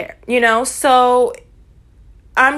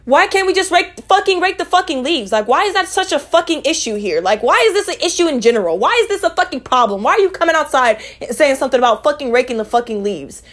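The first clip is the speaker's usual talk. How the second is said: retold rant, pitched higher and pushing; exasperated rant; 4 semitones higher than usual. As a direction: vent the frustration at the nosy family. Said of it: "I'm like".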